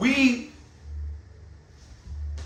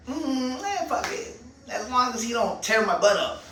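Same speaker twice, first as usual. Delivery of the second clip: mocking resigned shrug; 4 dB quieter than usual.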